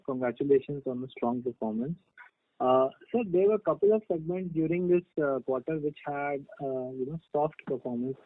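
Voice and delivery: faint, distant voice on the call; talking away from the mouthpiece; far from phone. Real, not acted. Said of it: "I think you're far away from the phone".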